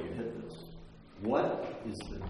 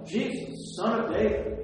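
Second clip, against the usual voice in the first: calling out; 9 semitones higher, 6 dB louder than usual. Retold or imitated. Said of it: "She's yelling".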